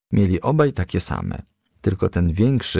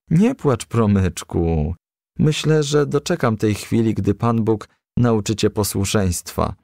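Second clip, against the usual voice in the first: Nuna comforting. Acted. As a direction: soothe the crying child. Nuna comforts crying Promyczek.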